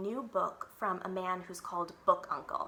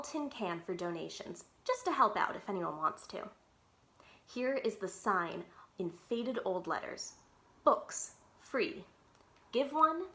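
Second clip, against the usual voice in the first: lively read-aloud chapter book voice; story narration. Acted. Teacher reads chapter book aloud.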